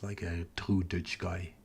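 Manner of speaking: put-on slow, thick Dutch-accented English; heavy Dutch accent. Mocking the prime minister's Dutch accent, slow and heavy. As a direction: lean into a broad Dutch accent, drawn out. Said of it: "He is, uh, speaking like this".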